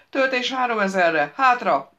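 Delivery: high, very loud urgent command; shouted warning to stand back; yelling. A narrator's reading. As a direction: bellow orders in an emergency. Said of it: "üvöltötte".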